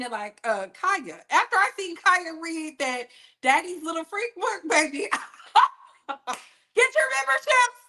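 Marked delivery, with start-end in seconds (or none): 4.7-7.8 teasing laugh. Real, not acted. Teasing sales pitch.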